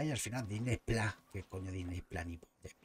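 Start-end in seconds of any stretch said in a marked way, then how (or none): none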